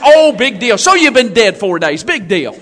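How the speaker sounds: unimpressed, sinking in pitch; mock dismissive. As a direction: shrug it off like it's nothing. Mimics unimpressed church member.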